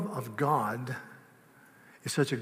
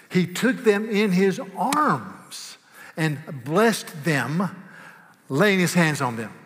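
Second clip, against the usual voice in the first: slow tender reading; 3 semitones higher, 4 dB louder, slower than usual. Acted.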